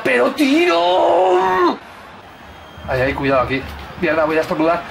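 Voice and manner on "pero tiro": much higher, slow pleading tiro; urging shot. Real, not acted. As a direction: stretch the word out, begging for the shot.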